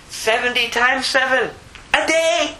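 "Seventy times seven a day" pitched very high; emphatic correction. Acted. Jesus correcting Peter on forgiving, "Seventy times seven a day" high and emphatic.

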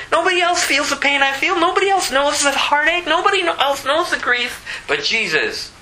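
very high, ringing preacher's cry, slowing at the end; preaching at full force. Acted. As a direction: cry it out to the congregation, building to the name. Pastor preaching climax.

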